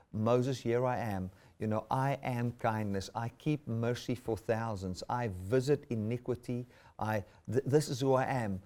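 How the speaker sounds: soft, tender words of God to Moses; gentle voice of God. Acted. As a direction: speak softly, like a gentle invitation. Preacher voices God to Moses again.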